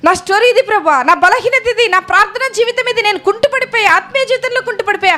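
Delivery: humble pleading prayer said aloud; model prayer. Shown as a demonstration. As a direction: plead with Jesus to change your story. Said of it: "మీ story చెప్పండి ప్రభువుకి".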